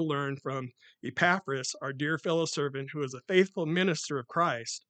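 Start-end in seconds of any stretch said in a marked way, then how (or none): none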